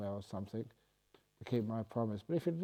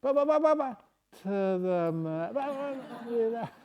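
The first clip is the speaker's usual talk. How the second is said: high frantic babble; 10 semitones higher, 4 dB louder than usual. Shown as a demonstration. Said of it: "high-pitched voice very fast and very excited".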